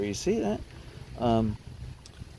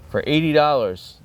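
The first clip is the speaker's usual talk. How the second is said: louder, announcing the prize; dramatic announcement; 2 semitones higher, 6 dB louder than usual. Shown as a demonstration. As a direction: build it up like a big reveal, loudly. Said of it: "the drum roll, please".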